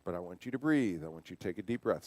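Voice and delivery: soft, steady coaching to breathe; calm reassurance. Retold or imitated. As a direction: coax him gently into breathing. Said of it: "the way that I'm talking to him".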